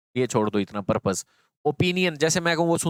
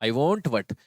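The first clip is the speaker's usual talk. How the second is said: slow sound demo; much slower than usual. Shown as a demonstration. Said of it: "देखो".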